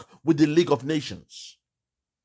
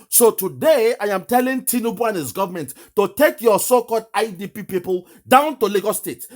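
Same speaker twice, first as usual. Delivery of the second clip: louder and higher, calling out the government; raised challenge; 4 semitones higher, 3 dB louder than usual. Real, not acted. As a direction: throw the challenge loudly at Tinubu. Challenging Tinubu over Lagos peace.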